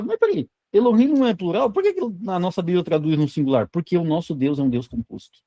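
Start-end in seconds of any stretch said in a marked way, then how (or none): 0.0-3.7 puzzled student question. Pretend. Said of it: "Aí você fala".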